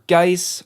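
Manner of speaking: "Geis" offered as another reading of Geese; alternative pronunciation. Shown as a demonstration. Narrator offering a second guess at a surname, alternative pronunciation "Geis". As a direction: say "Geis" with a different vowel from Geese. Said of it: "not exactly sure how you pronounce it".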